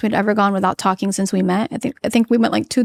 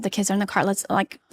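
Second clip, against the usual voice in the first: softer, talking herself down; calming herself; 3 semitones lower, 6 dB quieter, faster than usual. Retold or imitated. Wife in the car, calming herself for the kids, softer. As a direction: hush it, steady yourself for the kids' sake. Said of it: "And I'm calming myself".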